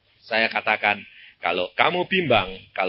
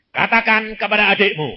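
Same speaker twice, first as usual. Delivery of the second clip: voice of God; 10 semitones higher, 9 dB louder than usual. Retold or imitated. God's voice commanding the preacher.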